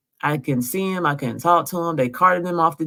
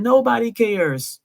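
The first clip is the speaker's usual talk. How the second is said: higher, slow, tearful nobody cares; mock sob, slow and higher; imitating him crying; 7 semitones higher than usual. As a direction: let the words break like his crying did. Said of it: "And he's just crying".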